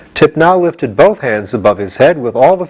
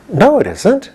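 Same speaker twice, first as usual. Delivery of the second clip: prompt denial; 10 semitones higher than usual. A narrator's reading. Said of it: "Tip said promptly".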